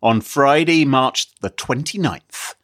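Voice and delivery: slow, menacing detective questioning. Acted. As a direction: grill them like a hard-boiled cop. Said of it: "Is this your detective voice?".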